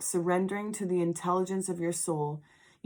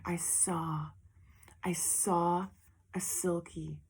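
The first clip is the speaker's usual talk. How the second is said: whispered; 6 dB quieter, slower than usual. Retold or imitated. Recounting a vision.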